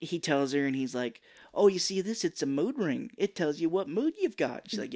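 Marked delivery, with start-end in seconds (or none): 1.5-4.7 higher, coaxing explanation; lightly pitched-up show-and-tell; mock talking to a child. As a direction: imitate an adult amusing a kid. Mark entertaining a little girl.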